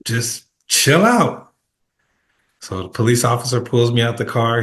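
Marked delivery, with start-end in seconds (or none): 0.0-1.5 slow, relaxed chill-out; laid-back. Retold or imitated. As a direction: stretch it out like nothing's wrong. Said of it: "He's like".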